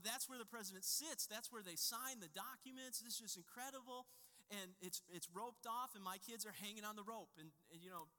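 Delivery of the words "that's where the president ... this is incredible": higher, raised voice, mock amazement; imitating awed tourist. Dad recalling his awe at the Resolute desk, mock excited. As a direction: gush like a wide-eyed visitor. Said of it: "you go".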